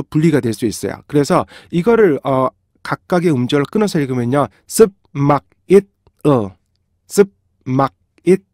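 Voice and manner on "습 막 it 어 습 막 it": 습 막 it 어 each cut apart evenly; even rhythm, equal length and force per syllable; separated syllables. Shown as a demonstration. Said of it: "정확히 똑같은 길이와 똑같은 힘의 리듬으로".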